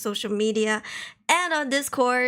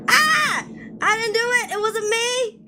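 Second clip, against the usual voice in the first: surprised; 10 semitones higher, 4 dB louder than usual. Pretend. Denies farting, high and loud.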